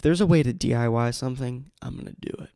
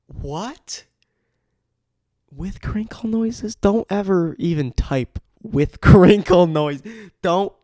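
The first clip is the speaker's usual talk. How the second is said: laughing disbelief; 6 semitones higher, 8 dB louder, slower than usual. Real, not acted. Incredulous at ASMR titles.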